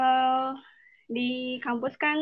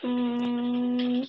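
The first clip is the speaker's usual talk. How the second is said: thinking hmm. Real, not acted. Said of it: "aku mikir dulu".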